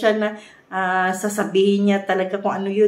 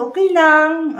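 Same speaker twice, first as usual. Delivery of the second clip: curt, clipped-off okay lang, louder and higher; irritated okay lang; 8 semitones higher, 8 dB louder than usual. Retold or imitated. Partner brushing off the question, mock irritated. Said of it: "sounds irritated".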